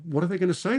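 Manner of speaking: ordinary talk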